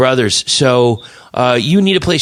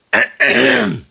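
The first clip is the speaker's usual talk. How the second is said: throat clearing; 11 semitones higher than usual. Real, not acted. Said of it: "I'm losing my voice here".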